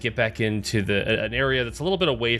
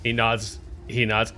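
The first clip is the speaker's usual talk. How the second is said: ordinary delivery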